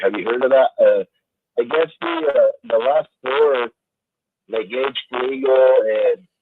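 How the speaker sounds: static-filled bad phone line; crackly cordless phone. Real, not acted. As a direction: voice breaking up over crackly phone. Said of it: "We got a very bad connection here".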